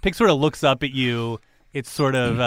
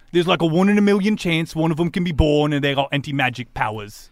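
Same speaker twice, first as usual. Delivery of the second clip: emphatic opening, then settling into explanation; lightly voiced cellmate explaining; 4 semitones higher, 5 dB louder than usual. Cellmate explains anti-magic pigs to prisoner, emphatic. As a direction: cellmate in a light character voice, informative.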